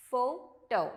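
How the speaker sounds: "photo" as a clear FOH-toh; model pronunciation. Shown as a demonstration. Teacher showing how to read the word, careful model pronunciation. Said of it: "You read this as".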